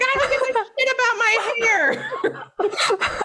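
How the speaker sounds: high, slow, laughing indignation; laughing mock exasperation. Brushing off his hair compliment mid-panic, laughing. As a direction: laugh through it, outraged at the compliment. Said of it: "I'm like".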